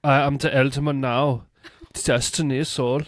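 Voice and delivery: grandiose mock hero. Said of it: "mock grandiose Uhtred".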